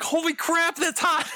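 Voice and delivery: high, laughing exclamation. Retold or imitated. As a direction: laugh it out as the heat hits. Laughing, retold heat from explosion.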